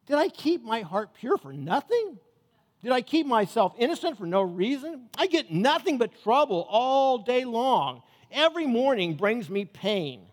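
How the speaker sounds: anguished complaint to God. Acted. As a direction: cry out at the injustice of it. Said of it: "so he's talking to God".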